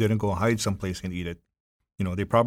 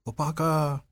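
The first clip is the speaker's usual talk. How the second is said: ghostly voice; 6 semitones higher, slower than usual. Retold or imitated. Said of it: "the voice goes".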